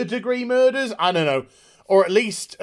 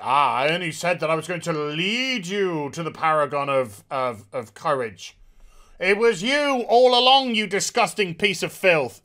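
mock Monitor; 2 semitones lower than usual. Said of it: "the Monitor's just like".

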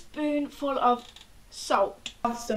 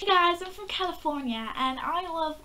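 put-on American accent; 4 semitones higher than usual. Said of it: "Do your best American accent".

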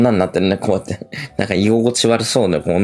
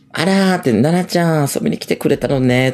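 mock sweet hostess; 5 semitones higher than usual. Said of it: "とか言いながら".

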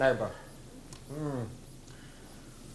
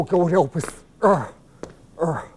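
ordinary talk, nothing marked

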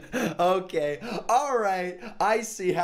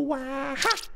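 silly yelp; 11 semitones higher than usual. Shown as a demonstration. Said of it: "You go".

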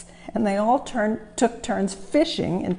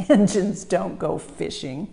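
engines chorus. Acted. Engines answer Thomas.

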